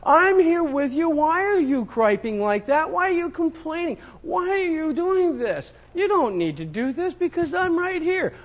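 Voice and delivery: high, gentle voice of God; God speaking to a complaining son. Retold or imitated. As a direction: soothe him like a patient father. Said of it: "God is saying".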